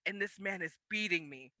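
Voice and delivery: a touch of an anime hero's oath; lightly voiced heroic vow to win; mock determination. Vowing to master the sport.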